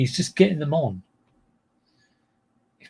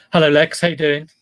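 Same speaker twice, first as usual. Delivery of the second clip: louder hello to a friend; loud greeting; 2 semitones higher, 5 dB louder than usual. Real, not acted. Greeting Lex in the chat, loud and cheery.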